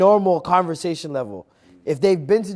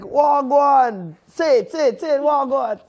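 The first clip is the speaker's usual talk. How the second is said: high, loud, insistent mock urging; egging on; 9 semitones higher, 6 dB louder, slower than usual. Jamaicans urging a visitor to speak patois, eagerly egging on. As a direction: imitate locals goading a visitor to copy them. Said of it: "they encourage you to speak like them".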